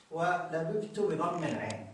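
ولببت read slowly with the second باء clear; slow text reading. Shown as a demonstration. Teacher reading the example ولببت slowly from the book. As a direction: read ولببت slowly, each letter distinct. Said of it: "بالنسبة إلى الأمثلة يقول".

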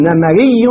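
slow نمري as "namariyyun", with "a" after the m; نمري read out slowly, middle vowel opened to "a"; fatha on the second letter. Shown as a demonstration. Teacher reads out the rule's example, نمري said "namariyyun". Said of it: "نفتح المكسور، الثاني يفتح".

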